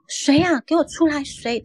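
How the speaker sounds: nervous shout of who's there, trailing off; retold scared challenge. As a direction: call out at the shadow, demanding. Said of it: "我就一直问".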